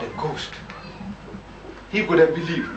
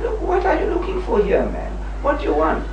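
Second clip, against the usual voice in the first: sharply raised, indignant demand; indignant challenge; 10 semitones higher than usual. Retold or imitated. Confronting special branch men, indignant and high. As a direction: confront the snoops, much higher pitch.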